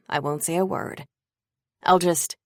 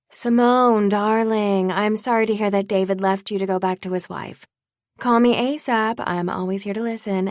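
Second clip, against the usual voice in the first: fake sympathy; 3 semitones higher, 5 dB louder than usual. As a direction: lay on insincere concern. Fake sympathy text read in mockery.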